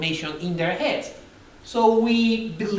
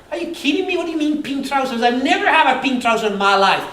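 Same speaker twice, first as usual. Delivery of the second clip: higher, incredulous outburst; mock disbelief; 4 semitones higher, 4 dB louder than usual. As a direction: act out indignant disbelief at the claim. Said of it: "And I get emotional".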